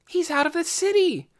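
relieved thought. A narrator's reading. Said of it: "she thought".

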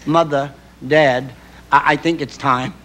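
slow, calm and matter-of-fact; calmly. Retold or imitated. Daughter calmly telling her parents the baby is coming, slow and even. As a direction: deliver the news without fuss, slowly. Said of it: "she very calmly said".

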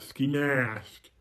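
mock redneck twang; redneck accent. Shown as a demonstration. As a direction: say it like a redneck, mocking your own slip.

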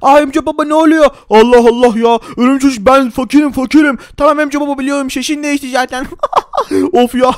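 a lightly put-on rich man's voice, loud and flustered; changed rich voice. After drinking the potion, player speaks in rich man's voice. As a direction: sound like the rich man, half-panicked. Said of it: "Sesim değişti arkadaşlar".

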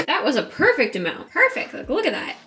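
high, loud pleased squeal; thrilled little cheer; delighted. Real, not acted. Pleased with milk amount.

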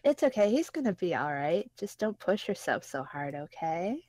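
put-on gentle girl voice. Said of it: "read the lady in voices".

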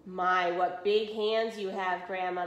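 slow, dragging groan; slow groaned plea; groaning wolf. Acted. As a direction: drag it out in despair. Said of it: "the wolf groaned".

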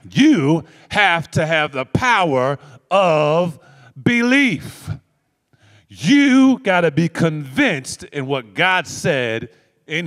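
slow, loud, drawn-out preaching build; emphatic preaching. Real, not acted. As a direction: hammer each word home to the congregation.

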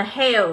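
"hair" pronounced as an English word; model pronunciation. Shown as a demonstration. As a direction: say "hair" as a teacher's reading model. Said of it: "Đọc là". (phát âm mẫu từ "hair")

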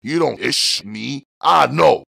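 high, taunting street voice; tough street voice. A narrator's reading. Street tough taunting Buddy, mocking. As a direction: sneer it at him like a dare.

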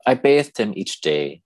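measured poem reading with long pauses between lines; poetry reading. Acted. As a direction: read it as verse, line by line, letting each pause hang. Reads own poem aloud.

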